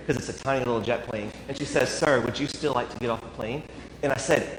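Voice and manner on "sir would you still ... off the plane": softer, a mock stage whisper; loud whisper. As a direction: hush it but let everyone hear. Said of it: "whispers to me so that everybody can still hear".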